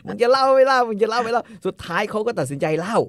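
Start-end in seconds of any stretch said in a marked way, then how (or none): 0.0-1.4 mock badgering. Host mocks hesitant poster.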